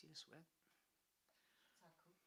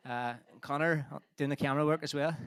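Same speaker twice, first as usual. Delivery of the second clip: out of breath; 10 semitones lower, 20 dB quieter than usual. Real, not acted. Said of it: "Can you tell I'm out of breath?".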